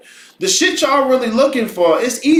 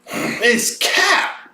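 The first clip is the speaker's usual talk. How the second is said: whispered call-out; 3 semitones higher than usual. Acted.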